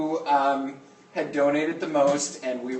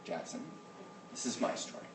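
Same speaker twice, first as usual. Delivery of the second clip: hushed whisper to a student; whisper, telling him to hush; whispered shush; 16 dB quieter than usual. Real, not acted. Shushing a student mid-story.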